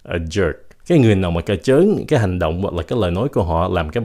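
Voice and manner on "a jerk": "a jerk" with the breath stopped at the end; final K cut off. Shown as a demonstration. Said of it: "ngắt cái hơi thôi".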